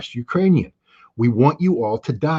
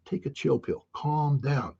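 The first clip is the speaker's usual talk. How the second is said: put-on kids telling dad to relax; 3 semitones higher, 8 dB quieter, slower than usual. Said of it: "They're like".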